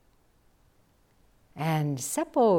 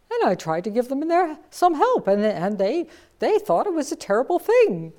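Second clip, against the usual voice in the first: rushed, louder and higher; animated retelling; 7 semitones higher, 7 dB louder than usual. Retold or imitated. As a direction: tell it all in a tumble of excitement. Excited retelling of helping someone.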